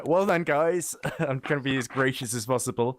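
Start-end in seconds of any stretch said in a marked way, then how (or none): 0.0-1.0 grudging, forced congratulations; through gritted teeth. Acted. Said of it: "I was gonna sound like through gritted teeth".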